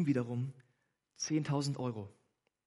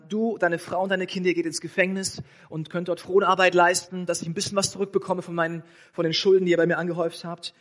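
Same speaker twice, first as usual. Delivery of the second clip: demanding king; 3 semitones higher, 6 dB louder than usual. Acted. Preacher voices demanding king.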